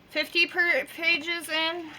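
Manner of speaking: talking through tooth pain; words slurred by a sore jaw. Real, not acted. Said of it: "That was hard".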